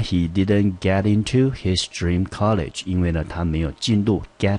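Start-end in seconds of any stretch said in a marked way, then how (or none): 0.0-2.8 slow reading. Shown as a demonstration. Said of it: "表示原因".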